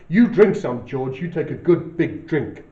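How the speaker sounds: Lenny's voice. Acted. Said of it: "our third voice ... which is Lenny".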